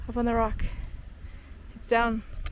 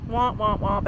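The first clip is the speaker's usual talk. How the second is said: sad trombone; 3 semitones lower, slower than usual. Real, not acted. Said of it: "I got a million excuses".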